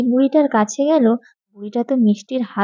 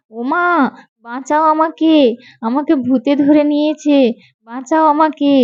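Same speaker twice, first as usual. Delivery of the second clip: frightened cry for help; 4 semitones higher than usual. Acted. Girl seized by a ghost calls her mother, frightened. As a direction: call out for rescue in a child's panic.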